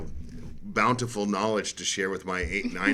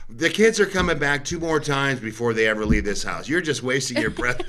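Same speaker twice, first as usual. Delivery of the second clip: wife's retort; 4 semitones higher, 4 dB louder than usual. Retold or imitated. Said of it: "She goes".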